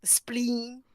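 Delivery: a hushed, unvoiced punchline; whispered spleen. Telling a co-host about monsters, whispered. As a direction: whisper it like a gruesome secret.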